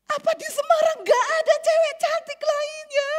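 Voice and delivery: harsh rebuke. Retold or imitated. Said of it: "sampai jadi kasar".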